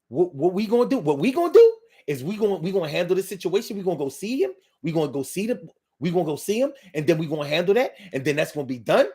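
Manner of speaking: quick, choppy New York patter, stumbling repeats; fast New York accent. Shown as a demonstration. Host contrasting New Yorkers with Philly, fast New York accent. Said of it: "New Yorkers talk way faster".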